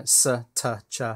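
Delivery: "s", "t", "ch" sounded out one by one; sibilant sound demo. Shown as a demonstration. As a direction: say "s", "t", "ch" as speech sounds, not letter names. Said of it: "used to detect sibilants like".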